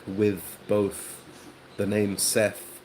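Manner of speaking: WITH, BOTH and SETH with the final TH sounded out; spaced examples, lingering on TH in BOTH and SETH. Shown as a demonstration. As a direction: show the TH ending in WITH, BOTH, SETH. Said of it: "So we say".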